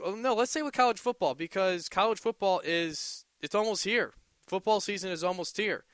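bubbling over that the season is near; keen sports fan's lift in the voice; excited. Real, not acted. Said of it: "I always get excited for college football".

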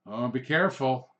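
ominous word of caution; mock warning. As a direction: caution them like someone who knows better. Warns couple at the window.

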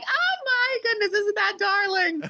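high, sing-song mock adoration; doting adults. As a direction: gush over the child like a charmed relative. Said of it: "And everyone goes like".

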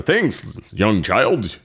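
lightly voiced superhero, slow and drawn out; imitating Gazelle Man. Hero thanking the kid in an audiobook, lightly imitated slow voice. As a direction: stretch the words slowly like an audiobook hero. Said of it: "he did talk like that".

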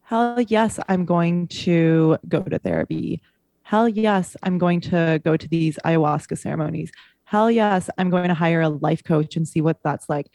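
pumped-up inner yes; excited. Retold or imitated. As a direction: cheer yourself on, rising. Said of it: "for me to say".

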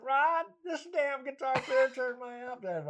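slow, high telling-on-you complaint; imitating a complaining guitarist. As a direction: mimic the old bluesman running to the bandleader.

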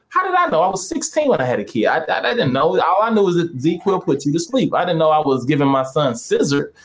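mock-defensive protest; put-upon victim act; playing the victim. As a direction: plead innocence, lightly hammed up. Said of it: "I play the victim".

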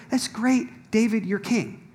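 imitating a well-meaning critic begging him to calm down; nagging naysayer. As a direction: needle him to tone it down. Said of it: "He's like".

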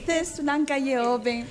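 drenched in echo reverb; echo effect. Real, not acted. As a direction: voice with heavy echo. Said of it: "La gusta el eco".

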